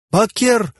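high-pitched ceremonial cry; exclamation. A narrator's reading. Pharaoh joining in from behind a column, high exclamation. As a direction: call it out high. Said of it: "воскликнул другой голос".

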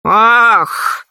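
embarrassed exclaimed "oh"; sheepish outburst. A narrator's reading. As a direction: let out a drawn-out, caught-out sigh of a word. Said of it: "сказал он смущённо".

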